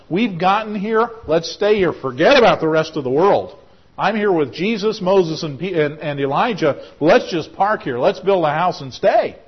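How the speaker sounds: a disciple who wants to stay forever; eager Peter. Acted. Peter's eager plan acted out.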